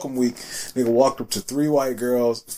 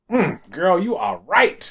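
sleazy smooth talk; 4 semitones higher than usual. Retold or imitated. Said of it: "But when he said".

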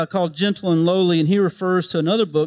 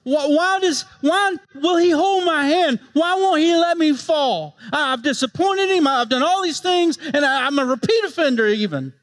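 higher, pleading questions; anxious doubter; 8 semitones higher than usual. Retold or imitated. Preacher voicing a doubter's pleading questions. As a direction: voice a worried believer's doubts, higher. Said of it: "questions that pop up like".

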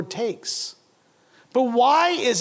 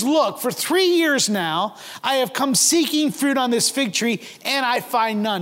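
mock angry owner; 3 semitones higher than usual. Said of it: "He's angry. He's frustrated".

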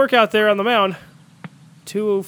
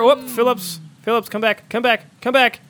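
urging the fielder, voice rising; calling out come back, rising; excited; 4 semitones higher, 4 dB louder than usual. Real, not acted. Outfielder misplays fly ball.

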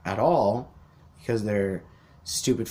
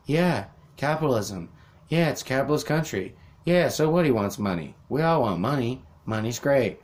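smug mock voice; 3 semitones higher, faster than usual. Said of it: "people in the country are like".

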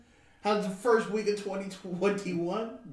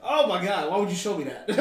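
shocked laugh, half appalled; disgusted laughter; 4 dB louder than usual. Real, not acted.

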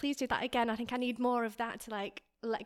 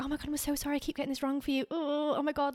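higher-pitched retold fluster; flustered apology; 4 semitones higher than usual. Apologising to her partner for messing up the words, flustered. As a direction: apologise in a mildly panicked, lifted voice.

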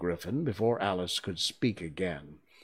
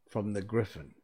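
ordinary delivery

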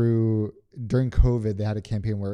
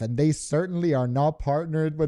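a hammed-up New York accent, pitched higher; 4 semitones higher than usual. LaGuardia check-in agent brushing off a traveler's airline, New York accent. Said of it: "said no accents".

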